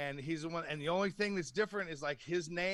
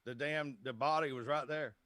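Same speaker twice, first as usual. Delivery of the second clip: put-on Southern accent. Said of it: "like, in the South".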